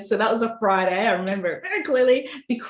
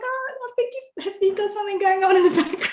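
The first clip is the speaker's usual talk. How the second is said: much higher, fast, amused publisher voice; imitating the publisher; 12 semitones higher, faster than usual. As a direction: mimic the publisher's puzzled question with a laugh. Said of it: "the publisher's like".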